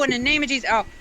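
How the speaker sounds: ordinary delivery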